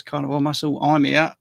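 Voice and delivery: lightly Cockney reading of a chat greeting; a hint of a Cockney accent, read aloud. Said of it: "I just said it in sort of Cockney".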